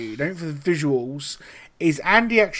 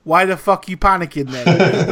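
put-on Colombian accent; 3 semitones higher, 5 dB louder than usual. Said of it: "this homage to his accent".

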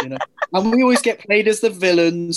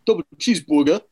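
lightly put-on New York accent; New Yorker ordering food. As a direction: give it a touch of New York. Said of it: "you might say, like".

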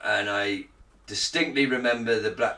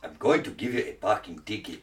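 put-on generic African accent; 5 semitones lower, 5 dB quieter than usual. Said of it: "This is my generic African accent".

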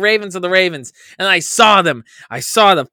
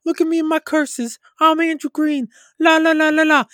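much higher, sing-song bragging; mock gloating Andrew; 11 semitones higher than usual. Mocking co-host Andrew, a high sing-song gloat. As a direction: prance around smugly. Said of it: "he's some big tough guy".

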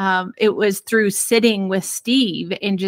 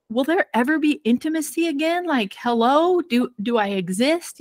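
higher, fast whiny imitation; hammed-up pleading husband, higher; mock plaintive husband; 5 semitones higher than usual. Imitating husband begging for attention, higher and whiny. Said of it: "And he's like".

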